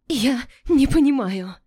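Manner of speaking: high, loud panicked cry. A narrator's reading. Melinda crying out in panic, high and loud. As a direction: cry it out in alarm.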